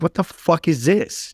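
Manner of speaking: high, slow, incredulous outburst; retold outrage. Firefighter railing at God over dying kids, high and incredulous. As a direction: spit it out at God in disbelief.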